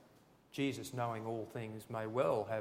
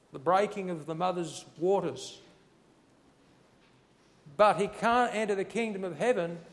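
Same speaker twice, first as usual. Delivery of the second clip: higher and louder, rising to a ringing cry; full-force preaching; 5 semitones higher, 9 dB louder than usual. Acted. Pastor pressing Jesus's answer on the congregation, ringing loud. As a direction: preach it out with fire.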